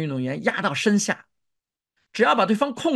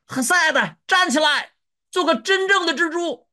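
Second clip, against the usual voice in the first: high, sustained cheering yell; shouting; 9 semitones higher than usual. Acted. Fan urges on the wrestler with the spider mascot, shouting high. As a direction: holler encouragement from the stands. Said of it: "所以这家伙喊".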